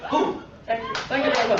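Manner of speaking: low, mumbly crooner's thanks; mock rock-star farewell; famous-crooner-style sign-off. Crooner-style sign-off ending the speech.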